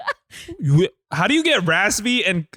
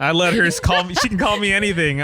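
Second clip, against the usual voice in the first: laughing through the words; amused. Real, not acted. Joking about letting Gamora use the nickname, amused. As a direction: say it through a chuckle.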